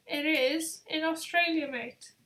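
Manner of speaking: a hint of badly faked Australian; half-hearted attempt at an Australian accent; barely-there mock Aussie twang. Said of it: "That was a very bad accent".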